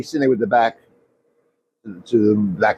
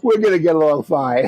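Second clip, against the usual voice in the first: laughing; 5 semitones higher than usual. Real, not acted. Quoting Bobby while laughing.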